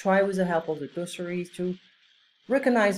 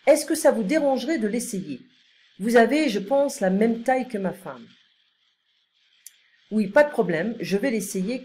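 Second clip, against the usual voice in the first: polite, lilting French read-aloud; model dialogue reading; 3 semitones higher, 3 dB louder than usual. Acted. Customer asks saleswoman to try coat on, model dialogue reading. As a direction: read both sides of a shop exchange clearly.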